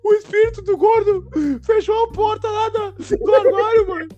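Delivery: put-on very high, loud wailing child; hammed-up sobbing, blubber it out at the top of the voice; imitated crying. Terrified cousin refusing his mother's order, mock bawling. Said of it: "meu primo chorando assim".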